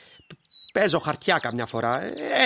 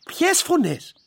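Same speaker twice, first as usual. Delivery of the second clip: mocking disbelief; 4 semitones higher, much slower than usual. Mocking her ghost voices.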